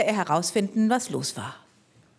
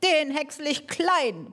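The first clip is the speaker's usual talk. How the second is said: shout; 6 semitones higher than usual. Acted. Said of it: "brüllte er".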